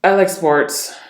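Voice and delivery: firm, falling, mildly angry delivery; deep angry tone. Shown as a demonstration. Coach demonstrating deep angry tonality, angry. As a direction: put controlled anger deep in the voice.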